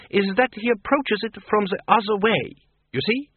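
put-on high-pitched, accented character voice; explaining vampire wife. Voices Doreen explaining Lupine.

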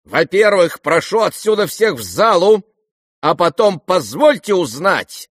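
loud, high command. Acted. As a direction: order them out of the room. Ganya orders guests out.

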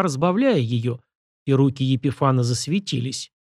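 usual speaking voice

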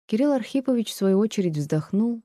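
plain reading voice

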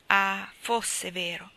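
slow, drawn-out wistful exclamation; longing sigh. Acted. Jo alone in the attic, wishing Fritz would come, slow and wistful. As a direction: let the wish ache, very slowly.

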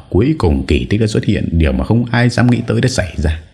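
plain reading voice

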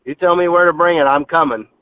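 cold threat down the phone; threatening. Real, not acted. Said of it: "why do you sound so threatening?".

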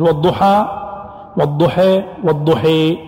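والضحى from open a to tilted e; fatha to full imala. Shown as a demonstration. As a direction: give والضحى with open a, then tilt the final vowel. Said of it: "إمالة، إضجاع تام".

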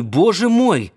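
the frightened man's fear bursting out; panicked cry. A narrator's reading. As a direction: cry out боже мой in rising panic. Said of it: "Перепуганный, дрожащий".

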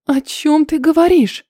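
high, sharp startled question; a wife's alarmed cry at her husband; startled exclamation. Acted. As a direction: blurt it out in shock. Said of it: "воскликнула она".

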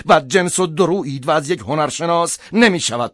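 pressing, indignant tirade; heated accusation. Acted. Husband accuses priest of turning his wife away, indignant.

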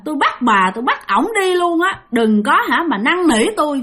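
high, loud threatening ghost voice; a possessed daughter threatening her mother, high and loud; menacing ghost. Acted. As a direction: snarl it like a vengeful spirit.

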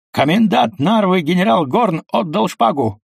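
high, ringing announcement; barked report. A narrator's reading. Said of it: "гаркнул". (громкий доклад высоким голосом)

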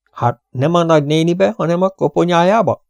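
a restrained yell of disbelief; exasperated exclamation. A narrator's reading. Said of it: "kiabálta Camille herceg". (visszafogottan kiabált kérdés)

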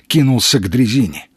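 ordinary delivery

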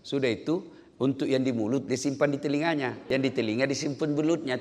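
ordinary talk

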